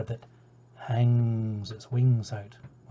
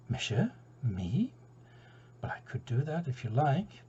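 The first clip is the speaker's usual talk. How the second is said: unenthusiastic; 5 dB quieter than usual. Acted. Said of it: "He wasn't too full of enthusiasm".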